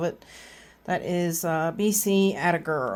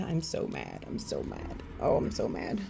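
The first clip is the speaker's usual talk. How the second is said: mild mock anger; 6 semitones lower, 9 dB quieter than usual. Real, not acted. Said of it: "I am so mad".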